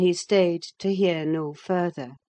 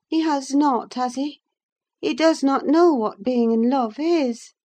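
put-on higher young woman's voice, earnest and confiding; Catherine's voice; 6 semitones higher than usual. Catherine confessing her love to Nelly, earnest. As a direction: let the secret spill out, half to herself.

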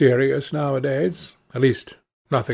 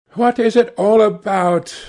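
petulant, higher and louder outburst; petulant cry; 6 semitones higher, 4 dB louder than usual. A narrator's reading. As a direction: whine it like a spoiled young man. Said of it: "cried Dorian in his petulant way".

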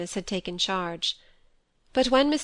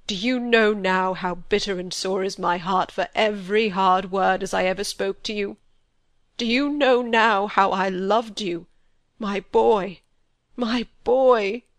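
grief-stricken plea; 3 dB louder than usual. A narrator's reading. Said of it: "he burst out".

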